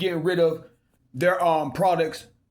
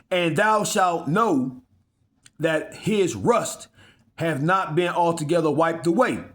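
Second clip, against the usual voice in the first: very slow, drawn-out Bible reading; solemn verse read to the flock; scripture reading. Acted. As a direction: lay each word down slowly. Preacher reads scripture aloud.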